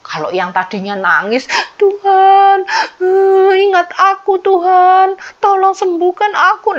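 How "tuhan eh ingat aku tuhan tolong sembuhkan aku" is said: higher, louder pleading to God, lightly acted tears; a touch of a king begging through tears; mock crying plea. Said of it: "Nangis gitu ya".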